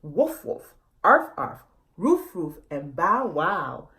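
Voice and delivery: a light playful bark; lightly voiced dog barking; a hint of a dog barking. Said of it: "together they barked".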